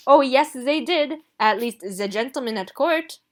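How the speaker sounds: put-on loud, fussy French-accented dressmaker. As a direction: gush over Ruby, scold Gideon. Rossini insists.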